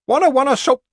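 put-on very high, loud toddler wail; screaming child tantrum. A narrator's reading. Small boy refusing a rag doll, screaming tantrum. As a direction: shriek it like a thwarted small child.

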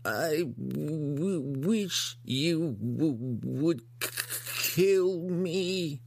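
high, slow pleading monster stammer; grotesque monster voice. Acted. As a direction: beg through the stutter. Hookar begs to die.

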